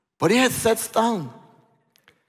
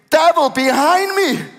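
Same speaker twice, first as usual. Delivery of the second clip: loud, higher scolding cry; sharp rebuke; 6 semitones higher, 5 dB louder than usual. Acted. Peter rebuking the devil, loud and sharp. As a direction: snap the rebuke out hard.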